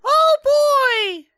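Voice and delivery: put-on high shouted "oh boy"; excited kid shout. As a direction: cheer like a thrilled kid. Kid voice cheering.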